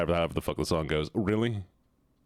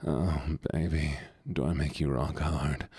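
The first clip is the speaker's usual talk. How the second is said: lower, joking seductive purr; mock sensual voice; 5 semitones lower than usual. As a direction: put on a silly sultry pet-rock voice. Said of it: "gonna do the most central voice".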